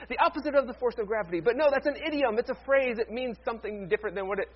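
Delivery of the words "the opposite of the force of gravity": physics teacher. Retold or imitated. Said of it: "you gotta love physics teachers".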